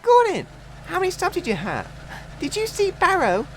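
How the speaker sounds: high, loud eager call; bursting with joy; excited shout. A narrator's reading. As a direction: Philip spotting Gordon's return. Philip calling excited.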